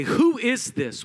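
high, slow fearful question; fearful believers. Acted. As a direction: ask it in mock alarm. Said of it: "They become fearful".

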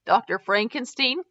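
"Frankenstein" with the first syllable like "frank"; "Frankenstein" opening with a flat A as in "frank". A narrator's reading. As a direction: say "Frankenstein" the common way, as a question. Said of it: "it's pronounced Frankenstein".

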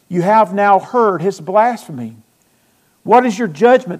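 loud, emphatic sermon delivery; forceful preaching. Acted. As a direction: preach it out to the congregation. Preaches through the trial scene.

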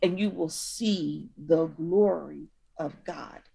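put-on a parent gently scolding a child who keeps forgetting; like talking to a child. Jesus speaking to them like a parent to a child. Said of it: "clapping her hands like you do with a child".

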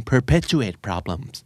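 reading the English very slowly for learners; host quotes the book slowly to his co-host; slow, careful quote. Shown as a demonstration. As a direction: spell the phrase out slowly, word by word. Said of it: "perpetuate ก็คือ".

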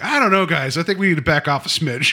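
lightly voiced, unsure Romero; a mild, hedging mock worry; hesitant director. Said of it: "Romero would even be like".

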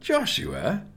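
high, rising plea; pleading. A narrator's reading. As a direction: call the name as an anxious appeal. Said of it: "Nelson was pleading now".

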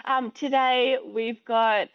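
a slow, hammed-up presenter voice, starting high; lightly voiced host opening a video; mock interviewer intro. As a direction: play the cheesy Instagram host. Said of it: "like this".

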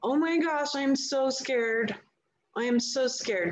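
voicing the fearful childlike self, mildly afraid; scared inner child. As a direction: lightly voice the trauma part, a little scared. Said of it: "the fearful part of you, the childlike self".

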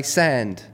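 slow, flattened-vowel "sand"; Cockney "sand". Shown as a demonstration. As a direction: sound said as "sand", the 'ow' flattened and stretched. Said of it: "it's like that guy's accent".

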